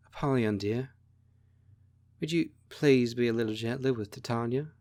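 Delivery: gentle, understated sweet plea; sweet asking. A narrator's reading. Dentha steps in asking Apollyon to be gentler, mildly sweet. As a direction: ask it sweetly, with a soft "dear". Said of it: "sweetly asks".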